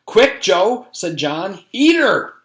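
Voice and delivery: high, loud panicked cry; loud urgent kid yell; urgent shout. Acted. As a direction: push your friend to act now. Urgent command, danger.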